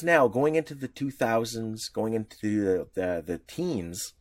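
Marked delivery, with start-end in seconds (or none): none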